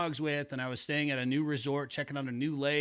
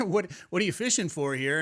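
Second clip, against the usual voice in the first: lightly imitated Southern accent, raised pitch; 4 semitones higher than usual. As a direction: quote an angler in a mild Southern accent. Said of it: "they have a Southern accent".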